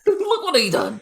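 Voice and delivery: high, slow, hammed-up lament; mock grieving mother. Mourning Chewbacca to friends, a high hammed-up lament. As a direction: wail it like a grieving mom. Echoing grief over Chewbacca.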